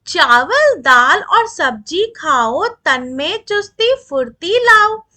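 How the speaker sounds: put-on slow, measured reciting of verse for children; poem recitation. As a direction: read each line slowly and rhythmically, like a class poem. (धीमी लय में कविता पाठ)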